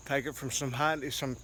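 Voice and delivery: winded, talking between breaths; catching breath from mowing on hills. Real, not acted. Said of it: "I'm out of breath".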